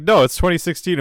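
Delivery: high, loud correction; hammed-up indignant correction; mock surprise. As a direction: blurt it out startled. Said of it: "Dude's like".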